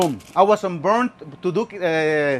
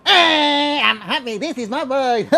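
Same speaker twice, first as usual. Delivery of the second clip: higher, laughing through the words; happy laughing; 6 semitones higher, slower than usual. Real, not acted. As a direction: show off your joy with a laugh. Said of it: "you wanna see me happy?".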